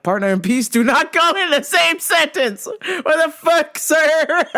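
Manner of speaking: high-pitched mock outrage; squeaky, scandalized objection; indignant disbelief. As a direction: protest incredulously, pitch up high. Acted indignant inner protest.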